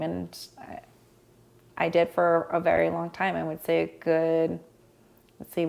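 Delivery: usual speaking voice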